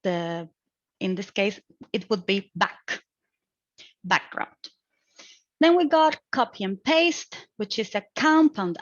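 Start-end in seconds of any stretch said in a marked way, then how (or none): 2.5-4.5 BACKground, weight on back; first-syllable stress. Shown as a demonstration. Student shows where a compound noun takes stress, first-syllable stress. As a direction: stress back in background, lighter second part. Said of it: "stressed on the first syllable".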